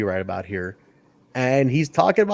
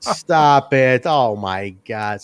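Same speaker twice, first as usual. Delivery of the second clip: slow mock exasperation, dragged out; lightly voiced fed-up commentator; Lance Russell; much slower than usual. Commentator begging Jerry to stop, mock exasperation. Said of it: "Lance Russell always be like".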